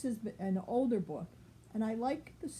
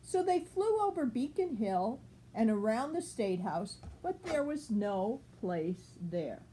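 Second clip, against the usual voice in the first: put-on clear, even read-aloud voice for a child; storybook reading. A narrator's reading. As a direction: read it like a bedtime picture book. Reads picture book to child.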